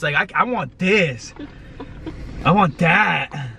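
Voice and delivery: slow, suggestive drawl. Acted. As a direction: tease it slowly with innuendo. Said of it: "suggestive protein joke".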